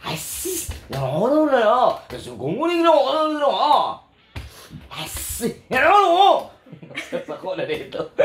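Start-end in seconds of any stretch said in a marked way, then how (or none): 0.0-6.3 hammed-up Korean intonation; mock Korean accent. Host imitating Koreans chatting, mock Korean accent. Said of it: "pero ilang tono".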